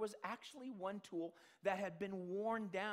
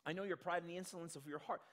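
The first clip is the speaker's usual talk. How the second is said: fast run through the verse; quick reread; faster than usual. Shown as a demonstration. Scene: preacher reads the verse again, hurried. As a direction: rattle the quote off quickly. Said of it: "he says".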